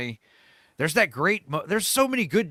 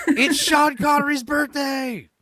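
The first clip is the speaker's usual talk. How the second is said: much higher, louder and slow, laughing through it; laughing shout; 12 semitones higher, 7 dB louder, slower than usual. Real, not acted. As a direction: belt the punchline while cracking up.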